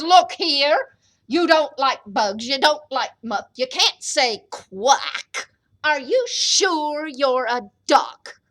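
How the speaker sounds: loud, challenging mama duck; scolding mother duck. Acted. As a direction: call him out, loud and suspicious. Mama confronts the stranger duck.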